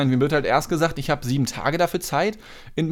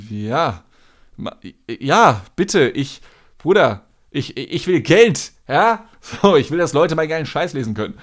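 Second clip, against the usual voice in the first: louder, pushy frustrated caller; exasperated; 3 dB louder than usual. Retold or imitated. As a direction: insist with mounting exasperation. Caller insists he wants money.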